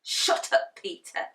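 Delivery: snarling whisper. Acted. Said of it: "gnawed Henry".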